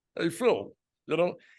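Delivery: thick, high, full-mouthed voice. Retelling how a guy named Olin Dick talked, in Olin Dick's thick voice. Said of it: "he talked like this".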